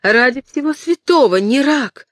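high and loud, begging him to stop; frightened scream. Acted. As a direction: cry out in horror. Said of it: "закричала Кэтрин".

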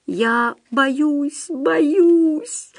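high, thin character voice lamenting; fearful wailing. A narrator's reading. Frightened Худяков laments to Остап, high fearful wail. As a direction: wail it, pitch climbing on the second word. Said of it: "причитал Худяков".

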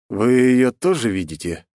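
slow, faintly trembling question; slightly shaky voice. Acted. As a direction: let the voice shake a little. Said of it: "слегка подрагивающим голосом".

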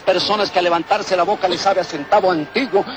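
street remedy pitchman spiel; hyped fairground barker. Acted. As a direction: sell the cure to the crowd. Merolico selling miracle remedy.

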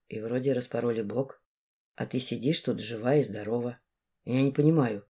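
put-on quietly disbelieving young man; shaken young man. A narrator's reading. Vsevolod voiced lower and softer. (потрясённый юноша, тише и ниже)

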